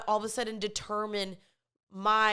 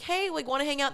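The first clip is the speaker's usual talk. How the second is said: higher-pitched, hopeful ask; upbeat invitation; 5 semitones higher, faster than usual. Acted. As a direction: casually pitch a hangout to friends, voice lifted. Acts out inviting friends.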